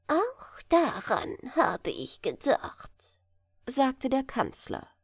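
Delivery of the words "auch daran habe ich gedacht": slow, much higher squeaky falsetto; a little chancellor's piping voice. Acted. Chancellor proposing marriage to the king, high falsetto. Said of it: "mit seiner hohen Fistelstimme".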